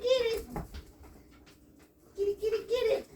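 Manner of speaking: high, bright-pitched praise for the dog; excited puppy talk. Real, not acted.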